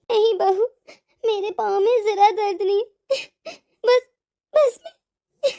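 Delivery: halting tearful reply; choked, weepy old mother-in-law; crying. Acted. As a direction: break off into sobs. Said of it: "आप क्यों रो रही हैं इतना".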